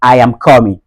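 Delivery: COMING as "KAW-min" in a Nigerian accent; rounded "aw" in coming, Nigerian style. Shown as a demonstration. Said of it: "Du côté nigérian".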